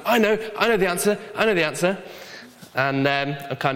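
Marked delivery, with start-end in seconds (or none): 0.0-2.0 put-on fast and a bit higher, hand-waving kid; mock-eager little kid who knows the answer; eager child. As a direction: blurt it out like a keen Sunday school pupil. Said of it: "I always put my hand up".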